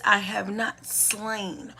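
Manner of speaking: slow, deliberate "I have not slain"; slow emphasis. Shown as a demonstration. Teacher stressing the law's wording, slowly. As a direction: spell it out word by word. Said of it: "which very specifically is".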